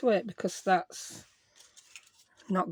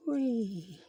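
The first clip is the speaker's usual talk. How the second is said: soft, drawn-out falling "whee"; quiet whee sliding downward; playful whee; 2 semitones higher, 6 dB quieter than usual. Real, not acted. Crafter to herself while sticking petals, playful whee.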